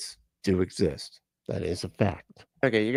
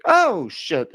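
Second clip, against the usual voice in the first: shocked; 8 semitones higher, 6 dB louder than usual. Retold or imitated. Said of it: "He's like".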